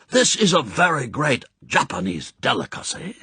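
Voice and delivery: brisk, scolding host; lightly voiced impatient rebuke. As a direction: chide him like a disappointed teacher. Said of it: "Tiger hissed impatiently".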